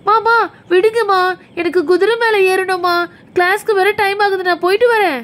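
lightly voiced child begging to go; pleading child. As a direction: plead with mum as an impatient child. Voices pleading child in doll play.

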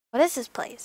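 unvoiced hush; in a strange alley, whispered. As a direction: whisper it, uneasy.

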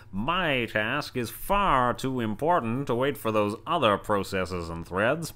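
a hint of a mustache-twirling villain; old-timey villain voice. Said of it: "in that old-timey villain voice".

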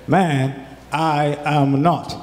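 loud, slow, insistent "I do not know him"; loud denial. Acted. Peter denies knowing Jesus, loud and emphatic. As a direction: push the woman away with a loud denial.

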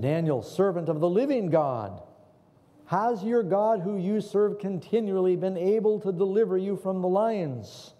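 king calling anxiously into the lion's den. Acted. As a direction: call down into darkness.

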